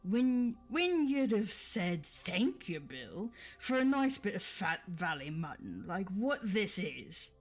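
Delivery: loud, scolding Cockney troll; William's troll accent. Acted. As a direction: tell him off in a rough Cockney troll voice. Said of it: "Forgive me for the accents".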